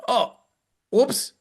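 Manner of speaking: high, sheepish oops; sheepish whoops. Retold or imitated. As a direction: squeak out an embarrassed whoops. Caught arriving late.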